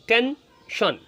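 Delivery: "টেনশন" split into ten and shon; syllable by syllable. Shown as a demonstration. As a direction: spell out "টেনশন" in two clear beats, ten, shon. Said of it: "এই দেখুন লিখেছি". ("টেনশন" ভেঙে ভেঙে, টেন... শন)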